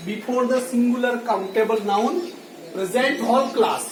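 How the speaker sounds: एप्पल-style teacher read, word by word; very slow dictation. Shown as a demonstration. Teacher dictating the rule to the class, very slowly. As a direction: spell it out slowly so students can write. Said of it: "इसे समझिए थोड़ा".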